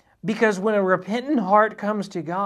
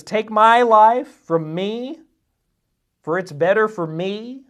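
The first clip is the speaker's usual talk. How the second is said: slow and louder, each word drawn out; dramatic Jonah; 4 semitones higher, 4 dB louder, slower than usual. Retold or imitated. Jonah begging God to take his life, slow dramatic plea. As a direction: plead to die with hammed-up despair.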